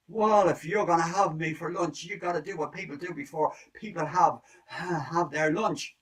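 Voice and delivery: high-voiced rooster striking a deal. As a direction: pitch up and talk fast like a cocky rooster.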